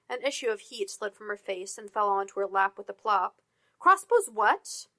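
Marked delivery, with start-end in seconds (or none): 3.8-4.9 groggy surprise. Acted. Jen jolts awake from nap.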